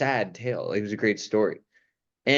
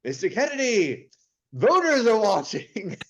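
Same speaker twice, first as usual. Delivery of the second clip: mock Vincent Price; 9 semitones higher than usual. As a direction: scold the president like a creepy host. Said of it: "And he's like".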